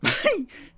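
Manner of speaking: sudden high-pitched laugh out loud; real burst of laughter. Real, not acted. Host laughing on air at a viewer's message, loud high laugh. Laughs before reading next comment.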